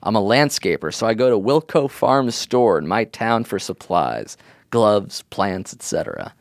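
lightly voiced young landscaper. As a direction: read it as a teen landscaper. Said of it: "doing a voice of somebody you assume is a landscaper".

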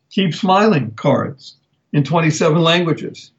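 usual speaking voice

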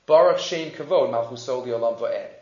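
low, soft recitation; quoting angels under the breath; hushed praise. Retold or imitated. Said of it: "he heard the Malachim praising God and saying".

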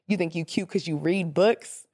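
a hint of mock jealousy; hater sneer. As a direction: throw shade at the bookworm. Voicing herself as hater.

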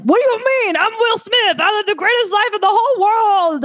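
mock-incredulous, very high squealed voice; Will Smith's protest. Star protesting to his therapist, squeaky mock disbelief.

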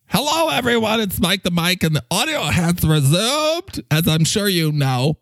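announcement. Acted. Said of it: "I will make the announcement".

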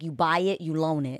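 "buy" and "loan" stressed as separate words, softly; broken-down name. Shown as a demonstration. Host breaking her maiden name into "buy" and "loan". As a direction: split it into "you buy it, you loan it". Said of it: "break my last name down like this".

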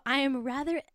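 put-on tentative high Italian-accented voice; mock Italian accent. Host quoting an annoyed Italian woman, mock Italian accent. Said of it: "I've gotta get the accent right".

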